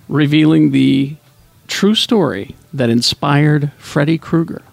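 slow, measured spooky introduction; lightly put-on campfire horror narrator, with long pauses; scary storytelling voice. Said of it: "put on my storytelling scary voice".

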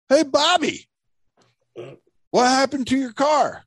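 high, exaggerated imitation of a nosy friend; facetious mock Dan. Storyteller mimicking his friend asking about the car, facetious. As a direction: call it out in a hammed-up high voice. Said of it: "very, like, facetious or something".

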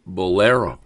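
slow, smooth radio DJ voice; back-announce the track like late-night FM; FM radio announcer. Acted. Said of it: "I sound like the F M radio guy".

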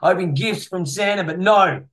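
mildly indignant, playful scolding; mock rant. Host scolding Greg about uploading on Christmas, mock rant. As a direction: rant at a listener with mock grievance. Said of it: "Sorry, there's my rant over".

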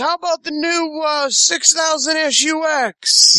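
hammed-up car-ad pitch; salesman voice. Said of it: "he goes".

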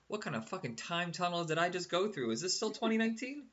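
disbelieving, voice rising high; incredulous. Retold or imitated. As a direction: react like you've stepped back in time. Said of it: "And I was like".

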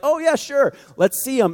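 acted-out schoolkid doubt; mock skeptical. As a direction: play along as if you doubt it. Acting out doubtful middle schooler's friend.

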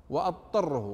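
"وأضطره" as wattarrahu with no ض; dad assimilated. Shown as a demonstration. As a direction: merge the ض into ط in "وأضطره". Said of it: "ألف طاء مباشرة بدون ضاد". ("وأضطره" بلا ضاد)

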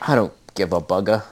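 lightly put-on Australian accent; a quick, understated go at an Australian; half-hearted Australian accent tossed off in passing. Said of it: "That's me doing a Australian accent".

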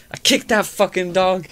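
loud, high, laughing imitation of a boastful old drunk; ranting old man. Imitating the old man at the bar bragging, loud and laughing.

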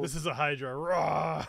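little squeaky monster roar; a small creature trying its hardest to roar; tiny squeaky trying to roar. Acted. GM shows tiny Hydra roar.

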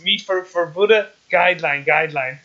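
slow, lightly voiced Korean-accented English; Korean-accented punchline. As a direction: deliver the punchline in a mild Korean accent, slowly. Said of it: "I'm terrible at doing impressions".

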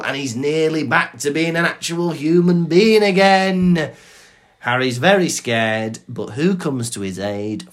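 hammed-up chapter summary; dramatic story recap. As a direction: build each plot point to a mock-epic climax. Rattles through a chapter recap.

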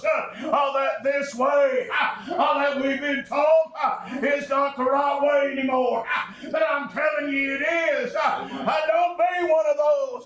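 rising, rhythmic sermon chant with breathy uh's; whooping preacher. Acted. Preacher warning his congregation in a chanted, whooping cadence.

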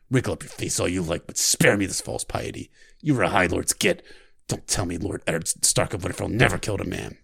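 rough, menacing soldier; a hateful killer savoring the word kill. Acted. Scarred killer answering the frightened girl, cold menace. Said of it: "I practiced the voice".

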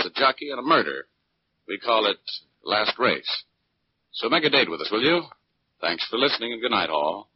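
easy announcer's closing patter; radio host sign-off. Acted. Host Dick Powell thanking listeners, relaxed announcer sign-off. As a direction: sign off the show to the audience.

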